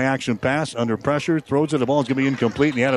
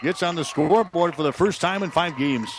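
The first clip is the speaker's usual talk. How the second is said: excited; 4 semitones higher than usual. Real, not acted. Recap right after touchdown.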